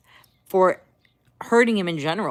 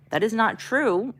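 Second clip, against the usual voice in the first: slow, higher reassuring denial; nice reassurance; 4 semitones higher than usual. Retold or imitated. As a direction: reassure them nicely, drawing it out. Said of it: "First tone was nicely".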